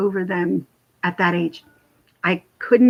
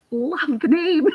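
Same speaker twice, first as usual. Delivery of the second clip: laughing; 8 semitones higher, slower than usual. Real, not acted. Reading a viewer's name.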